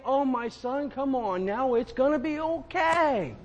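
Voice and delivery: high, gentle voice of God; God speaking to a complaining son. Retold or imitated. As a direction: soothe him like a patient father. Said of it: "God is saying".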